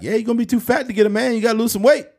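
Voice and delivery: high, rapid mock-grandpa scolding; grandpa impression. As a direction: badger them in a hammed-up grandfather voice. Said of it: "My grandpa would say fucked up shit".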